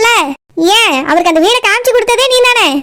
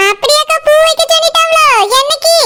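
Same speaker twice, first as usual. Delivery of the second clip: higher, surprised question; 4 semitones higher than usual. Acted. Pathrali hears the bride's family liked Surya, surprised. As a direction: ask with bright surprise. Surprised by flower ceremony news.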